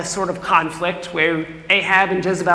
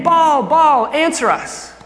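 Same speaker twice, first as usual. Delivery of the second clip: desperate loud call to a god, rising high; crying out; 8 semitones higher, 4 dB louder, slower than usual. Retold or imitated. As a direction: call out to Baal, pleading. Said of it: "they cry again".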